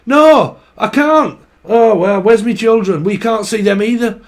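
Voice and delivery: indignant northern back-and-forth; bickering couple. Acted. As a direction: squabble as a couple, each refusing the chore. Acted couple row over escaped chickens.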